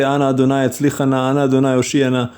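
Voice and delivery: rattled off fast, mock-formal Hebrew; 快速背诵式的夸张祷词; mock fancy prayer. Shown as a demonstration. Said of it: "any of these fancy words".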